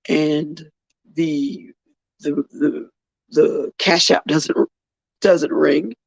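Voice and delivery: talking through hiccups; halting words, hiccuping. Real, not acted. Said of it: "I'm sorry, I have the hiccups".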